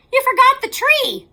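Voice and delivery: high, loud shocked cry; child shouting at his forgetful father. A narrator's reading. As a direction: blurt it out in alarm.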